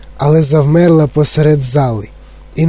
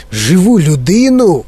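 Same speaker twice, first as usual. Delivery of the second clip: startled exclamation; 3 semitones higher than usual. Acted. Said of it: "вигукнув містер Вонка".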